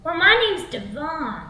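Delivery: lightly voiced slow, swaggering guy; slow, self-satisfied pickup delivery; creepy Devon. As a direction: introduce yourself like a slow, creepy flirt. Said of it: "And he goes".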